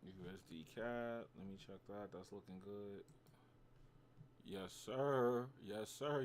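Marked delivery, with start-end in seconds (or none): 4.5-6.2 excited yes sir. Real, not acted. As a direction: celebrate the win. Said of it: "Gotta flex a little".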